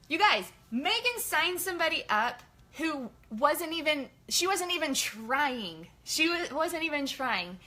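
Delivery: slow, high, stressing wasn't even trying; slow emphatic delight; emphatic amazement. Real, not acted. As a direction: hammer home the point. Stressing amazing result.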